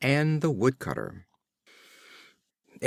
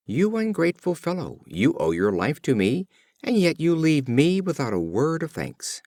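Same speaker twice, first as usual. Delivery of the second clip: reproachful; 5 semitones higher than usual. Acted. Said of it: "called to him and reproached him".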